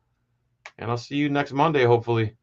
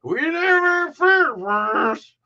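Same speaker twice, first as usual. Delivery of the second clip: high, stretched-out redneck twang; slow redneck detective impression, pitched way up; hammed-up redneck accent; slower than usual. Host repeating the detective line he kept imitating, exaggerated redneck accent. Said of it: "I kept rewinding it and imitating it".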